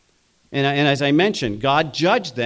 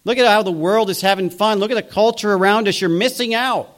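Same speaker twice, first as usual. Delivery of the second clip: lightly acted higher-pitched coaxing; worldly churchgoer urging; 5 semitones higher than usual. Worldly churchgoer tempting believers with the world's fun, lightly acted urging. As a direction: press them like someone selling worldly fun. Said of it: "people coming into the church basically saying".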